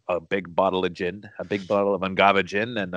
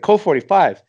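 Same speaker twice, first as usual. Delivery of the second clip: Billy Dee Williams; 10 semitones higher, 9 dB louder than usual. Retold or imitated. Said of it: "he's like".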